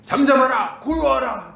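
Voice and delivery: loud, high, firm command; a sudden ringing rebuke to the storm; commanding Jesus. Acted. Jesus standing up to calm the sea, loud command. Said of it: "예수님이 딱 올라서셔가지고".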